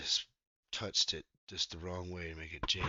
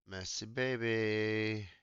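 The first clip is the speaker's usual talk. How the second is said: tender cooing; much slower than usual. Real, not acted. Cooing at something.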